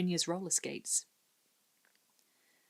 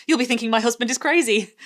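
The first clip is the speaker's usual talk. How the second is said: uncomfortable laugh; 6 semitones higher, 10 dB louder than usual. A narrator's reading. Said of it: "laughed uncomfortably".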